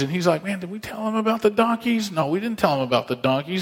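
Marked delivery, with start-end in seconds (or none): 0.4-2.1 higher-pitched, baffled acted question; puzzled question. Man asks his companion about the donkeys, puzzled. 2.1-3.6 quick, matter-of-fact acted reply; dismissive answer. Companion answers about the donkeys, quick and matter-of-fact.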